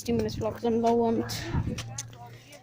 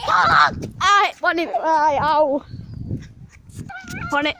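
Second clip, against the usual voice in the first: whiny yell; 4 semitones higher, slower than usual. Pretend. Fake tantrum over bubbles.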